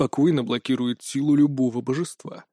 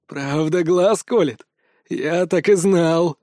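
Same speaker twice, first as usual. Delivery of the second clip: smirking; much slower than usual. Acted. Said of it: "усмехнулся Локи".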